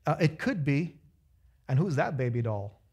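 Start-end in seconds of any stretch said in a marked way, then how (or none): 1.7-2.8 low, laughing flirtatious catcall. Retold or imitated. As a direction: toss it out like a cheeky pickup line. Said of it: "modern day equivalent of this word".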